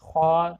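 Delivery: خوا said with rounded lips; teacher showing lip movement; lip rounding demo. Shown as a demonstration. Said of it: "یعنی ہم جب ادا کرتے ہیں".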